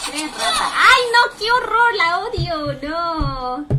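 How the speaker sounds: very high, loud squeals of alarm; real gamer panic, high-pitched; panicked shrieks. Real, not acted. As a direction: squeal in horror as enemies appear. Shrieks at enemies in game.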